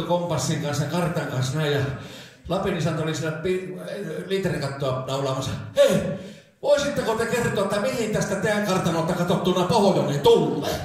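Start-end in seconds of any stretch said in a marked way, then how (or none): 5.8-10.8 raised, higher hailing voice; calling out. Acted. Lost orienteer to man nailing a roof, calling out. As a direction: call up to someone at a distance.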